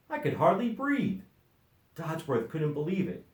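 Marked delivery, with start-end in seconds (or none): 0.1-1.2 relieved duck voice. A narrator's reading. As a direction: gasp it out like freed from a trunk. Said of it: "said the duck".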